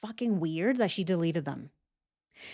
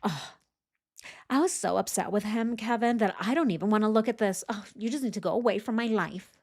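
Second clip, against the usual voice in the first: mocking paraphrase; faster than usual. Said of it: "that's what she's saying".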